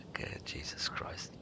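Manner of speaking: under-the-breath whisper, almost no voice; whispered aside. Real, not acted. Gamer whispering to himself after laughing. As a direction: mutter it to yourself in a whisper.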